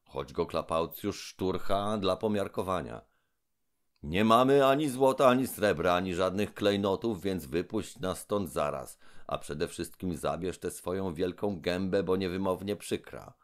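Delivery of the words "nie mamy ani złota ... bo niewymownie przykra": high, loud, indignant demand; angry Trull. Acted. Trull demands release from the robber, loudly. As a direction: order him off, outraged.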